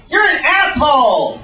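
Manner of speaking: high, loud camp caricature; stereotyped gay-guy voice. Acted. Comic imitating a stereotypical gay guy, high camp outburst. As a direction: exclaim it in a campy high voice. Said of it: "gay guys who talk like that".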